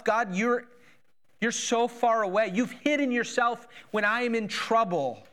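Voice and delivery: pleading as a man beside himself; distraught plea. Retold or imitated. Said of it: "David's beside himself".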